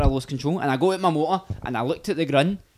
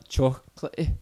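"Chocolatey" broken by a gap mid-word; gap between syllables; 2 semitones lower than usual. Shown as a demonstration. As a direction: split "Chocolatey" into separate chunks. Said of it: "you're leaving the gap".

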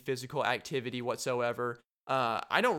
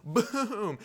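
gloating taunt; 3 semitones higher than usual. Retold or imitated. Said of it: "be like".

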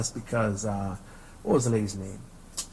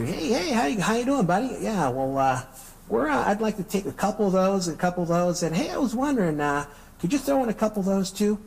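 high, perky white-person voice; put-on white voice, pitched well up; white-guy voice; 8 semitones higher than usual. Shown as a demonstration. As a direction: flip into an upbeat, high-pitched polite customer voice. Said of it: "flipping the white switch".

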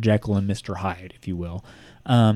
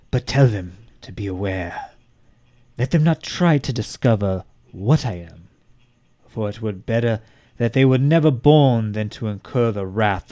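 dramatic letter reading. Acted. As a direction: read like a threatening letter.

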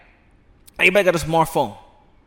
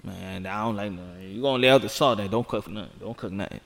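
mumbled complaint; 9 semitones lower, 7 dB quieter than usual. Real, not acted. Complaining about wife's low salt.

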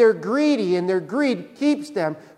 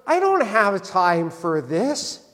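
slow, drawn-out brush-off; blunt mock dismissal; slower than usual. Jesus brushing off the inheritance request, slow mock dismissal. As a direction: dismiss it slowly, mildly put out. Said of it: "He says it in a nicer way".

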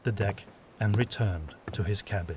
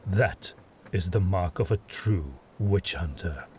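a commanding lord giving measured praise; stern witch hunter lord. Acted. Adomir praises Ludlov.

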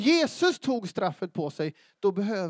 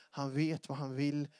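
ordinary talk, nothing marked

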